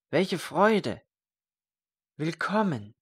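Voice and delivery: high, bright-voiced cry of delight; joyful welcome. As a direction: greet him like a long-lost friend. Joyful greeting of old friend.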